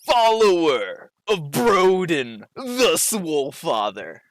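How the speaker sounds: slow, deliberate gym bro enunciation; every word flexed out slowly; enunciating with a flex. Acted. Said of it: "enunciates each word with a flex".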